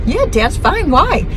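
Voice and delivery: high-pitched imitation of Mom; mom's phone reply.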